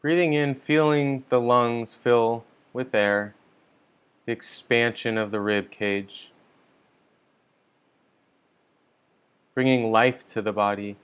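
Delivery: calm, measured meditation guidance with long pauses; unhurried meditation leader, leaving space between instructions; guided meditation. Real, not acted. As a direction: guide listeners gently into settling, phrase by phrase.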